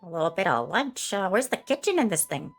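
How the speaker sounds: lightly voiced bossy lady; breezy take-charge; Karen's voice. Karen deciding to fetch lunch from the brig, breezy.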